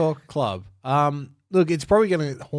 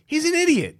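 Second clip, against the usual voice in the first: Forrest Gump voice; 5 dB louder than usual. Retold or imitated.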